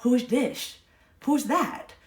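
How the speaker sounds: silly odd voice. Pretend. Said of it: "What is that voice?".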